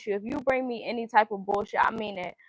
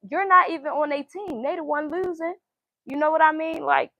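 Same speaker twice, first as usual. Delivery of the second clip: emphatic; 8 semitones higher than usual. Real, not acted. Heated point about losing team.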